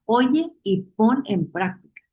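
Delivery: "Oye" slow and leaned on, then the rest; stress on oye. Shown as a demonstration. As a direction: draw out "Oye" as the key word. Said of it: "Quiero enfatizar la palabra oye".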